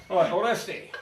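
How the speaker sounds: a light attempt at a Scottish accent. Magician addresses volunteer Oresti, in a loose Scottish accent. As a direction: say the name with a rough Scottish lilt. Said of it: "You can't say that not in a Scottish accent".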